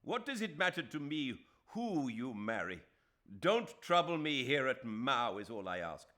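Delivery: loud, high and furious, hammering NOT; enraged. A narrator's reading. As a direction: spit out every word in fury. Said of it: "Shame turned into rage".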